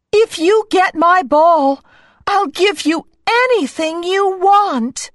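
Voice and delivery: high, pleading princess voice; a begging cartoon princess. A narrator's reading. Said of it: "cried the princess".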